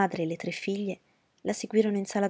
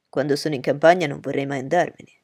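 put-on louder, eager young gentleman; Bingley's voice; 3 semitones lower, 8 dB louder than usual. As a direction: reassure her warmly and firmly.

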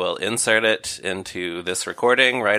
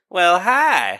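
high, loud cat meow shaped into words; high-pitched talking cat; 9 semitones higher, 4 dB louder than usual. Retold or imitated. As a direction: mimic a cat's meowed greeting. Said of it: "the cat meows in a way that sounds exactly like".

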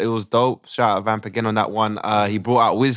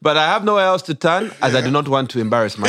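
put-on Ugandan accent; 3 semitones higher than usual. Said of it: "we do it in a Ugandan accent".

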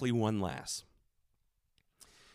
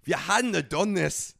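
mock Scottish woman's brogue; imitated Scottish accent. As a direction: let him down in a put-on Scottish accent. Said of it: "She then says the immortal words".

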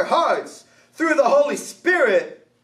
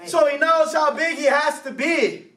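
grave vet warning; 4 semitones higher than usual. Retold or imitated. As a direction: deliver the twist like a stern vet. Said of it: "The veterinarian goes".

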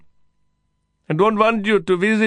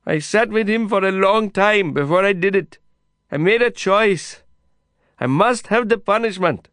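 high, loud insistent confession; louder shouting; 13 semitones higher, 5 dB louder than usual. A narrator's reading. Kasim insists on his punishment to Lin, loud. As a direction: drive each line home at full voice. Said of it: "louder than before".

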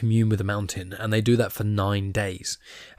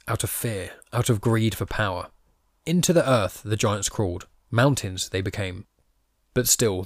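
deliberate reading with key words stressed; measured storytelling, pausing between phrases; emphatic read-aloud. Acted. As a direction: lean on key words to make inverted sentences clear. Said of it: "try my best to emphasise on the right words".

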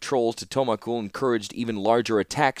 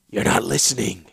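patient; 3 dB louder than usual. Acted. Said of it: "said the warlord patiently".

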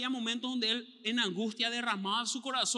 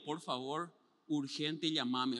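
softer, lower, hushed; mock urgent plea; 4 semitones lower, 5 dB quieter, much slower than usual. Texting a friend in secret, hushed urgent plea. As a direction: beg for rescue quietly. Pleading text for rescue.

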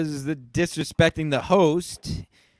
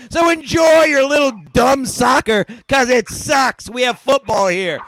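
mock tirade; 5 semitones higher, 3 dB louder than usual. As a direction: jeer at the English like a drunk fan.

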